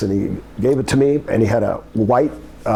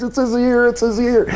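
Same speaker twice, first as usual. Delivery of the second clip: screaming in horror; 12 semitones higher than usual. Retold or imitated. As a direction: shriek it like you can't believe it. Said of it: "and he's crying".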